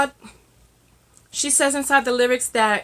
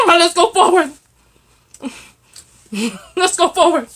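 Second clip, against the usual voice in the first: loud and high through a laugh; bursting with laughter; 8 semitones higher, 7 dB louder than usual. Real, not acted. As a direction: laugh out the words. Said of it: "laughing repeat".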